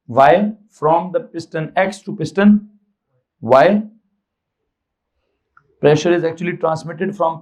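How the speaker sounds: slow, measured teacher dictation; dictation pace. Real, not acted. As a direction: dictate slowly so students can write it. Dictating a sentence to note down.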